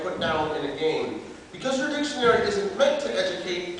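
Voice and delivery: declaimed slam-poet letter; open letter performance. Acted. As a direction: address the makers formally, as a performed piece.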